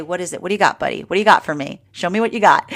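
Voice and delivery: mock-tough coaxing, like egging on a buddy; playful challenge. Talking to her fear like a buddy, teasing challenge. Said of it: "I say".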